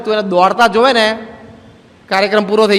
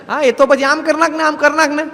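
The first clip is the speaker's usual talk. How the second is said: higher, breezy know-it-all giving advice; 6 semitones higher than usual. Retold or imitated. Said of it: "કોઈક પૂછે ને". (ઊંચા સૂરે દોઢ ડાહ્યાની સલાહ)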